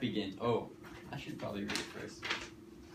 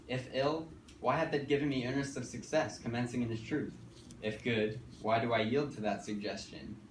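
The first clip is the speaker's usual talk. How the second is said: searching soliloquy. Acted. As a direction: ask it like a man torn inside. Recites lines in voice.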